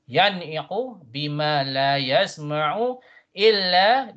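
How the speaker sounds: measured tajweed reading; teacher's model chant; Quran recitation. Shown as a demonstration. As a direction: recite clearly with lengthened vowels.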